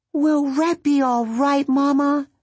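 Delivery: a little one afraid for Red; worried baby skunk. A narrator's reading. Rose Petal to her mother, a high worried tiny voice.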